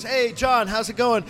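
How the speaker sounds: cheerful Chris. Retold or imitated. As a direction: hand over the ice like a pal. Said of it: "Chris goes".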